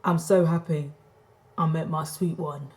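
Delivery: lightly imitated Cockney accent; slightly low-pitched Cockney impression; mock Cockney. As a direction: put on a hint of Cockney, a little low. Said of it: "he just sounded Cockney".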